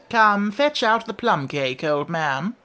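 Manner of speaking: high, slow, lordly call; imperious order. A narrator's reading. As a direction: order the old man about as a unicorn. Unicorn ordering the king about.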